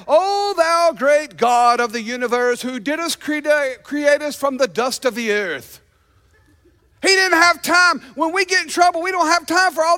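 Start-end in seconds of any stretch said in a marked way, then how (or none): 0.1-5.8 mock formal prayer. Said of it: "one of those long prayers".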